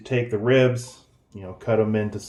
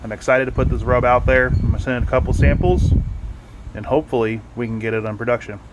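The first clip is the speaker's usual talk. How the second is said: talking with mouth full; faster than usual. Real, not acted. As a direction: speak through a mouthful of food. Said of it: "Sorry for eating with my mouth full".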